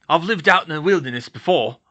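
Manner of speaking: gruff, confident gamekeeper; Hagrid, reassuring. Acted. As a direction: boast heartily to calm their worry. Voices Hagrid.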